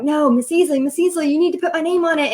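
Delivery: mock kid voice, rushed and pleading; insistent kids.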